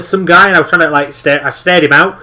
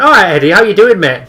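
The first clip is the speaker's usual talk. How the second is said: casual greeting; 4 semitones higher than usual. Retold or imitated. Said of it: "He actually stopped and went".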